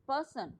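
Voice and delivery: "पर्सन" with weight on पर, falling away on सन; stress on first syllable. Shown as a demonstration. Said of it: "प पे, अ, अ, stress लगेगा". ("पर्सन" में पहले हिस्से पर ज़ोर)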